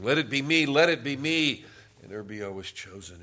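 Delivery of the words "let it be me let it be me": loud, high mock crowd shout; imitated screaming. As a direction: cry out like a man begging to be picked. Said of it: "they're all screaming".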